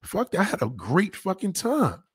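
very high squeaky no no no, comforting; hammed-up falsetto pleading not to feel bad; squealing over-the-top reassurance; mock reassuring. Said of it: "I'm like".

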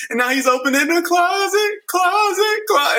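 high, escalating sung closet closet; retelling the video's climax in a high voice; mock dramatic build. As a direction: ham up the suspense. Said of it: "the music's intensified".

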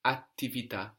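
"Attività" with a held double T after the A. Shown as a demonstration. Teacher models the Italian for activity, double T in "Attività". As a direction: hold the first T of "Attività" before releasing it. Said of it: "we get two T's there".

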